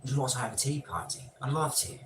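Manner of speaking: mock British accent for a tea party; put-on accent. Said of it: "That's a pretty good accent".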